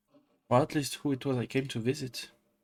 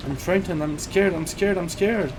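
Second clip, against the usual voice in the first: frightened; 5 semitones higher, 4 dB louder than usual. Acted. Repeating fear in story.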